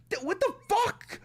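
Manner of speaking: squeaky stunned what the; shocked. Real, not acted. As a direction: stretch it out in shock. Shocked reaction.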